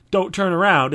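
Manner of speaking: hammy stage warning; cheap vaudeville warning. Retold or imitated. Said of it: "a cheap vaudeville, like".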